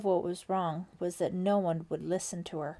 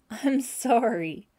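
calling out; 5 semitones higher, 8 dB louder, slower than usual. A narrator's reading. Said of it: "she called to him".

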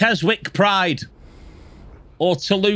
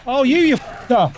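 higher, louder, furious yelling; angry shouting; 10 semitones higher, 3 dB louder than usual. Real, not acted. Gamer shouts down an enemy he is beating, furious. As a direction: yell at the enemy while beating it.

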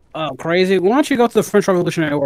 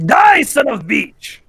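battle yell; 5 semitones higher than usual. Real, not acted. Yelled battle cry in game.

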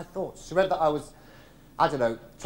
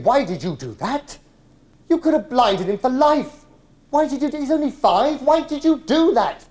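rising, louder furious questions; a father shouting at his wife in alarm; angry father; 6 semitones higher, 5 dB louder than usual. Retold or imitated. Father confronting mother, angry raised voice. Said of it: "And he was saying".

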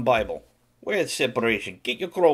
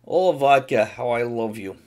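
mock love poem; 6 dB louder than usual. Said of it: "Let me compose poem to vodka".

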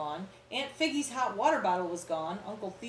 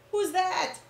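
curious; 10 semitones higher, 7 dB louder than usual. Acted. Reader asks child about picture.

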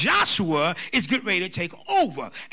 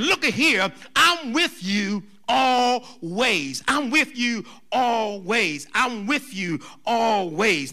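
attention-getting proclamation; slower than usual. Acted. Preacher voicing Jesus promising his presence, attention-getting proclamation. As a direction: call for attention, then stretch out the promise. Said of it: "he's getting their ears perked up".

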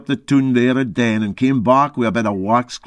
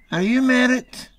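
prying question; 12 semitones higher than usual. Acted. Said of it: "she asked me".

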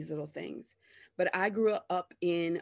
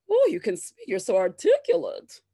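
mocking praise; 7 dB louder than usual. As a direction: gush over her like a pet.

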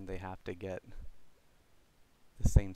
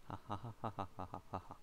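giggling; 14 dB quieter, much faster than usual. Real, not acted. Giddy rapid laughter.

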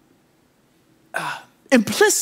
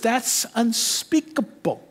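hushed scribe; 5 semitones higher, 4 dB quieter, slower than usual. Retold or imitated. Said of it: "And the scribe says".

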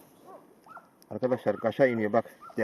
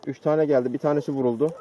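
calling out; 6 dB louder than usual. Real, not acted. Hunters calling over distance.

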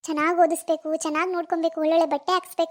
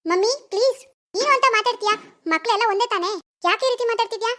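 higher-pitched protest; upset pleading; 4 semitones higher than usual. Acted. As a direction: plead with mother to stop. Daughter protesting to mother. (ತಾಯಿಯನ್ನು ಬೇಡಿಕೊಳ್ಳುವ ಆಕ್ಷೇಪದ ಧ್ವನಿ)

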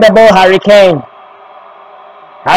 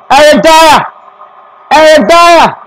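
high, keyed-up name call; higher, expectant commentator voice; tense anticipation; 5 semitones higher than usual. Real, not acted. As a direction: build suspense before the decisive kick. Suspense before deciding kick.

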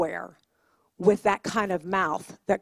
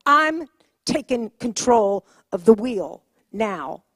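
mama bear; 4 dB louder, slower than usual. Acted. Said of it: "like a mama bear and going".

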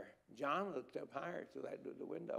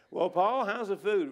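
loud cheery visitor; 4 semitones higher, 10 dB louder than usual. Retold or imitated. Visitor questioning Paul in jail.

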